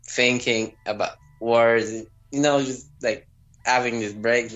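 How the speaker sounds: halting speech, thinking between words; slowish, halting. Retold or imitated. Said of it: "it was a little bit slowish".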